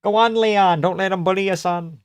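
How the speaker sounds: high, urgent cheering for a fighter. Real, not acted. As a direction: urge him on like a cornerman.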